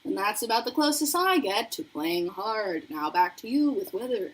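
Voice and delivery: lightly put-on news anchor delivery; newscaster voice. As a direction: hand over like a TV reporter. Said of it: "talking in a very newscaster voice".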